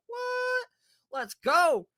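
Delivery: high squeal into a loud cheer; retold thrilled disbelief. Friends hear of the free test drive, thrilled shout. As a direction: re-enact excitement bursting out.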